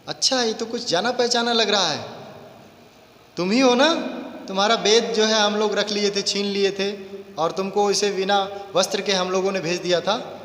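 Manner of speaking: lightly voiced gloating soldier; taunting soldier. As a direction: sneer at the boy you recognise. Soldier mocks captured boy.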